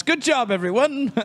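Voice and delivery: high-pitched congratulatory announcement; mock announcement. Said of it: "I can announce".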